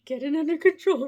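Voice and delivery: fighting back giggles; trying to stop laughing. Real, not acted. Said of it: "I can't do it".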